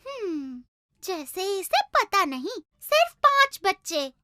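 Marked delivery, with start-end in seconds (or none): 0.1-2.6 quiet aside. Acted. Bird mutters aside, suspicious.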